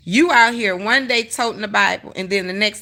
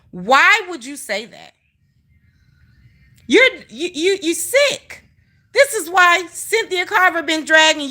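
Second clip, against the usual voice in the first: heated rant; 3 semitones higher than usual. Real, not acted. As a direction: let her have it, voice pitched up in outrage. Ranting at Ask Granny.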